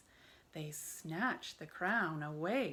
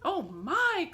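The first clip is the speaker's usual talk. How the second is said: high, loud gasp of fright; startled cry; 10 semitones higher, 6 dB louder than usual. A narrator's reading. Tiny old woman startled by the lion, high cry. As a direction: squeal it in surprise. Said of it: "cried the tiny old woman".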